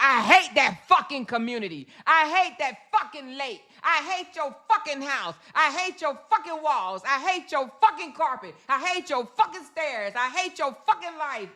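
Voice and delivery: hammed-up hate list, each line slammed down; mock angry rant. Mocking a hater's furious live rant.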